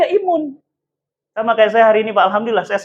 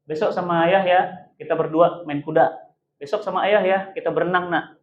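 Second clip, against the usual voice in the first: softly voiced father, a little lower; gentle fatherly invitation; 3 semitones lower, 5 dB quieter than usual. Father invites his child out for the day, gentle. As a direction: coax a child gently, keeping it low.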